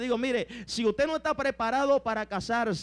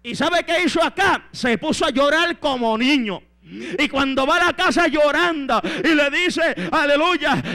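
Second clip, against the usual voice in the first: loud, animated sermon storytelling; fired-up preacher; full-force preaching; 7 semitones higher, 11 dB louder than usual. Acted.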